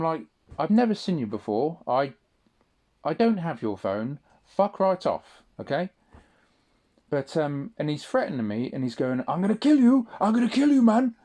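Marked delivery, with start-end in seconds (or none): 0.6-5.9 retold angry denial. 9.3-11.1 high, loud shouted threat in a put-on Somali accent; imitated Somali accent screaming I'm gonna kill you; mock Somali accent threat. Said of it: "proper, like, Somali accent".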